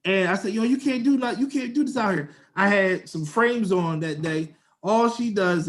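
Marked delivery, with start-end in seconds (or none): 0.5-2.3 retold protest. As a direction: replay your protest in a higher voice. Retells protesting to the woman.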